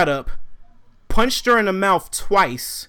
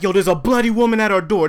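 alarmed report; 3 semitones higher, 5 dB louder, faster than usual. Retold or imitated.

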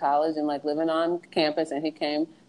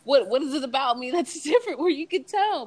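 embarrassed; 7 semitones higher than usual. Retold or imitated. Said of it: "I was so embarrassed".

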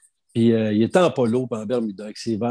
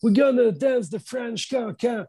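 much higher, slow, put-on rocker voice; impression of a rock singer; 11 semitones higher, slower than usual. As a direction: act the rock singer, high and drawn out. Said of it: "Et puis là, il dit". (imitation d'un chanteur de rock, voix très aiguë et lente)

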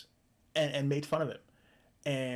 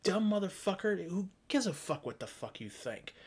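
angry retort; 5 semitones higher, slower than usual. Retold or imitated. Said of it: "And you're going".

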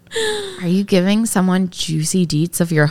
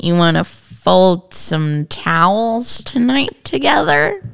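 slow, lightly sultry come-on; sultry narrator; slower than usual. Pretend. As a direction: drag it out like a seduction. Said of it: "sexy voice".

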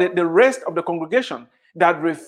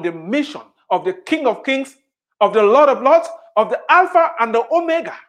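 rising proclamation. Real, not acted. Preacher builds rising proclamation.

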